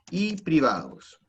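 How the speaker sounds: drawn-out dictated phrase; slow dictation. Real, not acted. Teacher finishing a dictated answer, slow dictation. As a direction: stretch the words out for note-takers.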